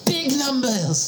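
put-on French accent. Same French-accented character.

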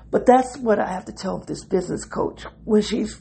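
strained voice while stretching; talking mid-stretch, a bit strained; stretching groan. Real, not acted. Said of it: "excuse me, I'm stretching".

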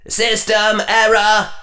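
high flat machine voice; robotic system error. Acted. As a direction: announce a crash. Inner voice glitches.

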